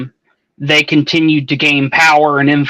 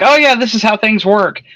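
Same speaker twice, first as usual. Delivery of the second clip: higher-pitched mock tour guide; imitating a guide; 7 semitones higher than usual. Imagined guide showing a newcomer around, mock know-it-all explaining. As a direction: play the guide breezily explaining things. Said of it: "show him around and be like".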